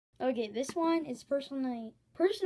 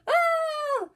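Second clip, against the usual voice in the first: much higher, loud wookiee howl; Chewbacca roar; 11 dB louder than usual. Pretend. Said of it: "My Chewbacca impression is on point".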